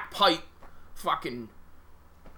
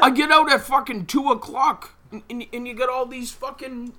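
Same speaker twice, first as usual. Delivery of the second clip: raised, louder griping; louder exasperated rant; annoyed rant; 4 semitones higher, 8 dB louder than usual. Real, not acted. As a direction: vent about the commuters, a touch louder. Ranting about yuppies on train.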